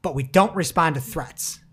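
booming mock Australian leader, mate; Scott Morrison quote. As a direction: ham up a defiant politician laying down the law. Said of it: "He said".

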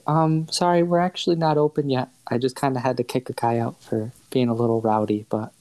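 lightly voiced apologetic shopkeeper; polite shopkeeper Ash.

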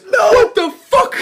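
high, loud mock yell at a driver; retold shout. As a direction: yell it out the window, hammed up.

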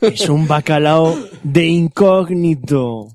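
slow, drawn-out words through laughter; amused mock reveal. Friend joking about a cod in disguise, slow and laughing. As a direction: reveal the joke slowly, laughing.

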